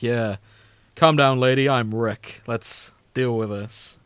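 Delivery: lightly voiced brash hero; gung-ho hero. Host mocking the Adventure Core, a lightly voiced swaggering hero. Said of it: "who's like".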